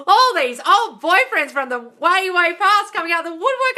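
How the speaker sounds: ordinary talk, nothing marked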